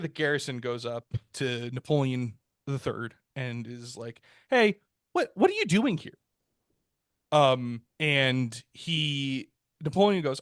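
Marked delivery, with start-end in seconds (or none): 4.5-6.2 high-pitched, puzzled challenge; mock bewildered challenge. Garrison commander confronting Napoleon the third, mock bewildered. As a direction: imitate a baffled officer, voice raised in pitch.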